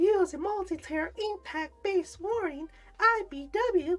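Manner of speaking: high, nasal, flamboyant voice.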